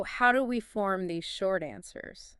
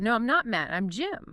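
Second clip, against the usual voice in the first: higher voice, NOT emphasized; stress on NOT; 3 semitones higher than usual. Shown as a demonstration. Teacher giving the line to repeat, stress on NOT. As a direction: punch "not" in the denial. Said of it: "Emphasize not".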